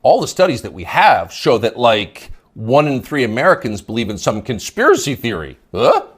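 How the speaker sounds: mocking a commentator's upspeak. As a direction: parrot the line back with a sneering uptalk. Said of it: "You'll notice the upspeak, the rising inflection".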